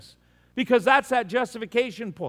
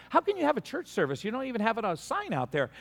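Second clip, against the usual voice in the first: mock disbelief, pitched up and hurried; incredulous questioning; 3 semitones higher, 4 dB quieter, faster than usual. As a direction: question it in quick, baffled disbelief. Questioning a surprise church service.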